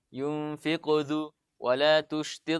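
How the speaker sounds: slow, even tajwid recitation; Quran recitation. Shown as a demonstration. Teacher giving a mid-sentence qalqalah example. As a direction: recite smoothly and slowly. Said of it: "seperti ini".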